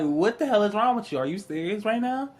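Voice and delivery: high-pitched, exasperated questioning; incredulous scolding. Retold or imitated. Fed-up lover questioning a paranoid partner, incredulous. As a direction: pitch it up in mock disbelief.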